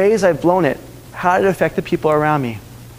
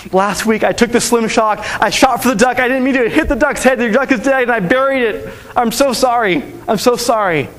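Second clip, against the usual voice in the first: put-on higher, pleading boy's confession; anxious confession; 5 semitones higher than usual. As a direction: blurt it out, scared and sorry. Boy confesses to grandma.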